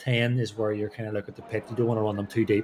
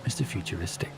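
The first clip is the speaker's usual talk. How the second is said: Mister Futuristic said softer and hushed; quiet; 6 semitones lower, 8 dB quieter than usual. Real, not acted. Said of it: "speak quietly".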